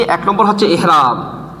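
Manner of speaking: unhurried teaching pace, stretching the key term; slow and measured. Real, not acted. Teacher taking students through the first step, slowly. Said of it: "একটু আস্তে আস্তে বলতেছি".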